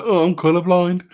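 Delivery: lightly voiced smug hipster; a hint of a know-it-all hipster; hipster bloke voice. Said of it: "some hipster bloke's gonna go".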